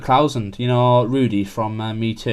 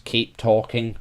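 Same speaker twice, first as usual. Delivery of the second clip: robot voice; slower than usual. Retold or imitated. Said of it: "in the robotic voice".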